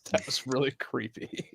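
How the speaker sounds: hushed whisper after a laugh. Real, not acted. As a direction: breathe it out in a whisper.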